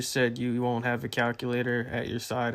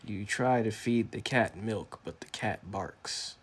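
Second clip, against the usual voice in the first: slow, hushed fake wisdom; mock-profound mentor proverb; fake wise mentor; slower than usual. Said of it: "Uh, yeah, it does, doesn't it?".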